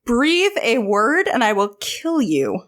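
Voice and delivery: slow, measured warning; understated acted menace; mock-deadly threat. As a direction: spell out the threat slowly. Elian threatens the laughing Dorian.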